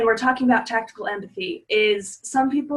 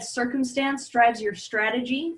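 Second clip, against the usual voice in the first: "strategy" lifted at the end like a question; question inflection; 3 dB quieter than usual. Shown as a demonstration. Host demonstrating a mirror to viewers, questioning inflection. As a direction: echo it back with "strategy" rising. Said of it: "I was using the question inflection".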